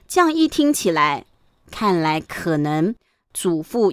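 usual speaking voice

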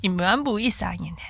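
unvoiced ASMR-style whisper. Shown as a demonstration. Whispered Hakka demo.

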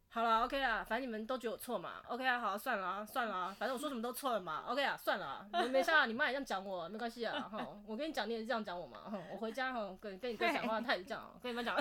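put-on childish sulking. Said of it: "他就开始很幼稚的说".

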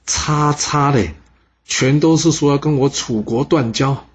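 high-pitched outraged cry, slow at first. A narrator's reading. General reading the betrayal letters, high outraged outburst. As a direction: let the fury burst out as he reads.

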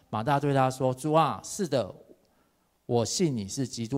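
measured Bible reading from the pulpit; scripture reading. Acted. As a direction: read it out like scripture. Preacher reads scripture aloud. (庄重地朗读经文)

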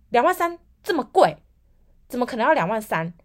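high, loud indignant mom, shocked at the price; a mother balking at a steep bill, loud; outraged mom. Retold or imitated. Mom hears the dental quote, loud disbelief.

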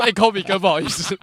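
把“Kobe哥”叫得客气恭敬，尾音上扬; 恭恭敬敬地喊“Kobe哥”; 礼貌称呼. Retold or imitated. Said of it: "我没有那么没礼貌啊". (对前辈客气地改口叫“Kobe哥”)

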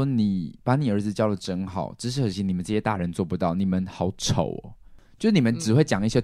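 慢慢挖苦. Retold or imitated. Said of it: "我就会觉得说".

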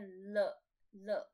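L sounded as luh, loud and drawn out; English-like L. Shown as a demonstration. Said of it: "这个好像跟英文差不多".

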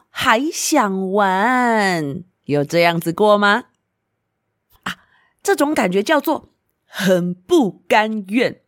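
put-on sing-song storyteller voice for little kids; reading to a toddler. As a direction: coax the little ones gently. Asks the children directly.

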